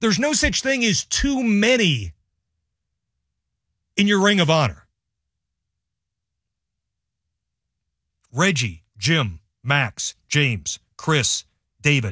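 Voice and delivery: imploring, begging, pleading delivery. Urging that former players be honored: begging. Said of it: "I'm begging".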